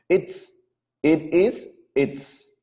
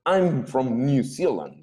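slow model sentence; slower than usual. Shown as a demonstration.

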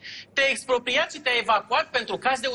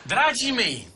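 speechifying; 2 semitones higher than usual. Pretend. Staged speech for the camera.

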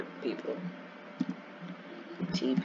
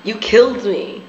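higher, louder accusation; indignant protest; 6 semitones higher, 6 dB louder than usual. Real, not acted. Player killed in the game accusing friend, indignant protest. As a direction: protest it loudly, pitch pushed up.

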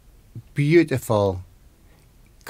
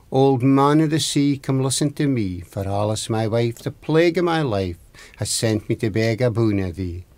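summoning rhyme. Acted. Husband calls on the old man of the sea, summoning rhyme. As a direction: recite it like an incantation, falling away at the end.

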